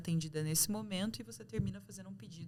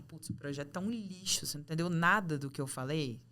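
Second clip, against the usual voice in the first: encenando um chefe indignado, subindo de intensidade; mock outraged scolding of an employee; bronca encenada; 3 dB louder than usual. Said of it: "é diferente de você falar". (bronca agressiva de chefe, de exemplo)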